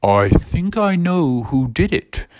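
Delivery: slow, put-on knowing voice; ominous Bubble Buddy. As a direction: draw out the suspicion. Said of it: "And Bubble Buddy was like".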